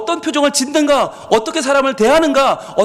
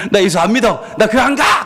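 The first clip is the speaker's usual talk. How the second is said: mildly raised, acted outburst; mock teenage yell. Child defying a nagging mother after church retreat, mock yelling. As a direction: play a child snapping back at mom. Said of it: "엄마한테 소리를 빽 질러버리면서".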